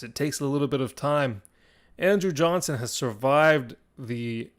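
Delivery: dramatic battle narration with suspenseful pauses; game master narration. Acted. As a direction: narrate the fight, surging on big moments and easing into suspense.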